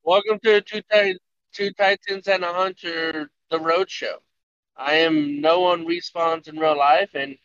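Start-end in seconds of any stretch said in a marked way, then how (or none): 0.0-4.2 host intro. Pretend. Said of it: "why couldn't you do that".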